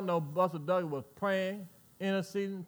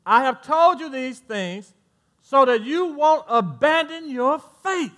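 slow building scripture quote; 5 semitones higher, 8 dB louder, slower than usual. Acted. Quoting Jesus, building up.

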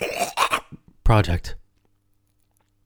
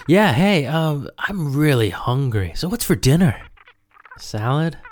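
husband voice; 5 semitones higher than usual. Acted. Acting like a husband on phone.

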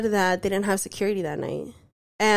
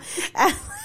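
exasperated laugh; 6 semitones higher than usual. Real, not acted. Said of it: "I'm just so aggravated".

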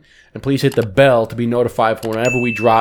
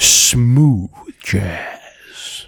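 radio DJ voice. Pretend. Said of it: "give my radio voice".

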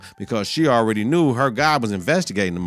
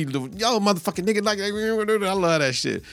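high, drawn-out delighted mock voice; imitating Tate; 9 semitones higher than usual. Tate thrilled by Regan's request, high slow delighted voice. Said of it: "And Tate be".

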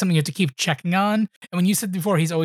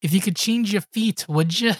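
put-on Scottish accent; 2 semitones higher than usual. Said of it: "Scottish accents when I'm listening".

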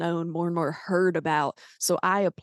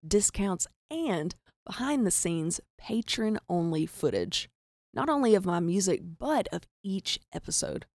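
measured, slightly softer promo read; podcast support read; 3 dB quieter than usual. Real, not acted. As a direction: thank listeners and invite them to join. Reads a sponsor appeal to listeners.

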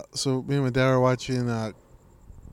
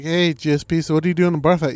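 raised, louder host voice; host's question; 4 semitones higher, 5 dB louder, faster than usual. Retold or imitated. Show host asking GSP for tips, raised voice. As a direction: ask like a TV host. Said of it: "he was like".

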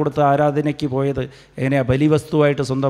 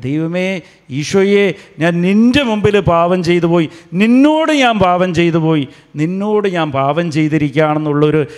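fervent repentant prayer; 2 semitones higher, 4 dB louder than usual. Shown as a demonstration. Preacher modelling repentance for the congregation, loud fervent plea. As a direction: cry out your sins to Jesus. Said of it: "അങ്ങനെ അനുദപിക്കേണ്ടത്".

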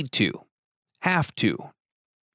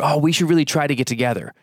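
fast, offhand, stress on really; insincere brush-off; 4 semitones higher, faster than usual. Shown as a demonstration. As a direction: toss it off with no intention of following through. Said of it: "people use try when they really have no intention".

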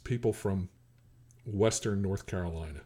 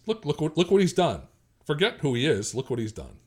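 admiring father; 4 semitones higher than usual. Acted. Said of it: "like Philip's father thinks".

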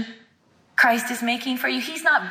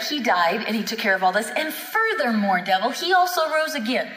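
taunting. Retold or imitated. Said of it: "shoving it kind of in the devil's face".

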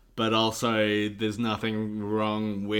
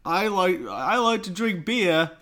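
much higher, slow, louder goofy Homer voice; bad Homer impression; 9 semitones higher, 6 dB louder, slower than usual. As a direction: drawl it out like a deliberately bad Homer. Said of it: "I'm gonna do my Homer impression".

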